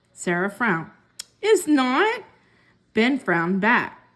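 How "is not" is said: put-on higher, louder childish retort; bickering sister. A narrator's reading. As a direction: snap back like a little sister. Siblings bickering over pencil.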